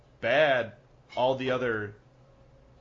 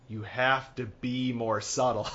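put-on Cockney accent; 3 semitones lower than usual. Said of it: "It's called Cockney accent".

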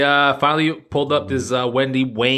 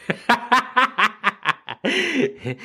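high-pitched burst of laughter; real laugh, pitched well up; 13 semitones higher than usual. Real, not acted. Laughing at his own joke.

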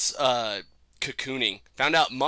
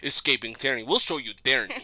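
Russian mobster. Pretend. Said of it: "because the Russian mob listens".

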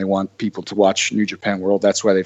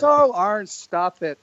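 imitating Rosa; 9 semitones higher, much slower than usual. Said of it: "she goes".

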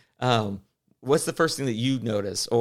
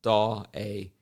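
lightly voiced Tweety Bird. Host imitates Tweety Bird's catchphrase with a mild lisp. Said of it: "his whole thing was".

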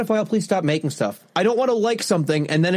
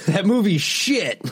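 mock dismissive; slower than usual. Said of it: "laughs, repeats the quote".

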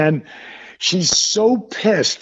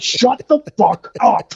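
slow, higher emphatic shushing; mock hushing; 4 semitones higher than usual. Husband silencing cursing wife in back, mock exasperation. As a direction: draw out each word to silence a heckler.

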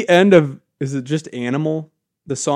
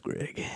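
maniacal laugh; 19 dB quieter than usual. Acted. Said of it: "why are you maniacally laughing".

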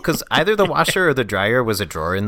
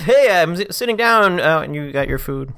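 much higher, louder teasing voice; hammed-up friend calling over; mock friend; 7 semitones higher, 4 dB louder than usual. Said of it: "That's not far off".

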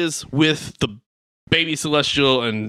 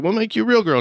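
mock grand promise; 8 semitones higher, faster than usual. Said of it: "they're like".

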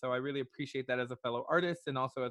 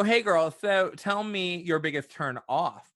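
put-on Long Island accent; slower than usual. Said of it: "Long Island type accent".

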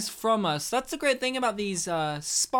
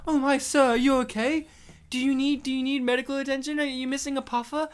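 concerned; 4 semitones higher, faster than usual. Acted. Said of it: "you're trying to help him".

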